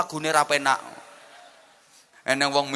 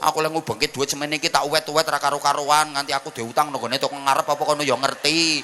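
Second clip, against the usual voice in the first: mock nagging wife in full flow; lightly acted wifely scolding, running on and on; fluent nagging. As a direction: rattle off complaints without a break. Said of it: "ora usah dikongkon ya lancar kok".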